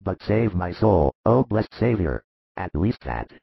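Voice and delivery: low-pitched, penitent begging; mildly tearful sick man; understated sobbing plea. A narrator's reading. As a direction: implore in a deep voice with a touch of tears. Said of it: "At last it is heard among sobs".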